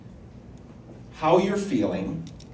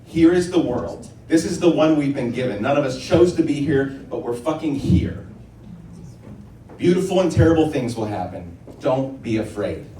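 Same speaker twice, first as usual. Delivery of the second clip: rousing declaration. Real, not acted. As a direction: proclaim it to the whole room. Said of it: "I'm going to do that".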